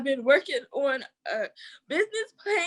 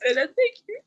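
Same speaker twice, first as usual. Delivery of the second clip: emotional, tearful; 5 dB louder, faster than usual. Real, not acted. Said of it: "I'm emotional today".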